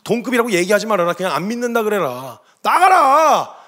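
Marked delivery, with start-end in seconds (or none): 2.6-3.6 높고 큰 소리로 내쫓는 호통; 나가라고 버럭 소리치기. Retold or imitated. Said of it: "뭐 난리를 쳤어요". (버럭 호통치듯)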